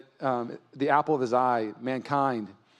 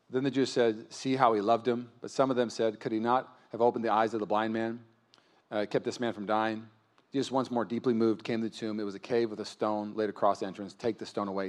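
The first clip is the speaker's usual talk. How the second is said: low, soft, measured Bible reading; scripture reading; 5 semitones lower, 5 dB quieter than usual. Real, not acted. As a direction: read the passage aloud, low and subdued. Reads scripture to congregation.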